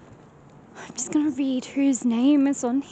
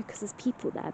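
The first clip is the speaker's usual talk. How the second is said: whispering; 2 semitones lower, 9 dB quieter than usual. Real, not acted. People nearby, lowers voice.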